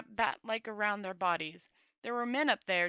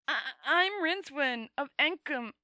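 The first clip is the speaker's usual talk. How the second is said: gasp; 5 semitones higher, 4 dB louder than usual. A narrator's reading. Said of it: "he managed to gasp".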